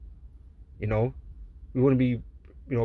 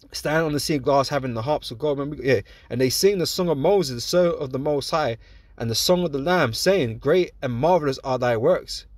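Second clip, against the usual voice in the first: scripture reading. Acted. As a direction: draw the verses out reverently. Reads scripture aloud.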